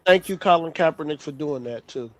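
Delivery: dry sarcastic thanks. Pretend. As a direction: say it with heavy sarcasm. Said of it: "I'm being sarcastic".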